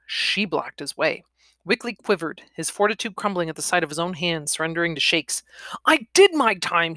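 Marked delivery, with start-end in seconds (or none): 5.9-7.0 high, pushed whimper; whimpering protest. Acted. Cornered man to the woman blocking him, whimpering protest. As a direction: plead it, raised in pitch and level. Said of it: "he whimpered".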